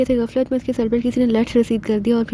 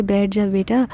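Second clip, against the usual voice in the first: a mother gently coaxing her son; lovingly; 3 semitones lower, slower than usual. Acted. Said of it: "بڑے پیار سے کہا".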